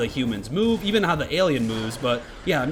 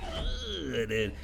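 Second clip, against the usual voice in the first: disgusted; 3 semitones lower, 8 dB quieter than usual. Real, not acted. Disgust at death animation.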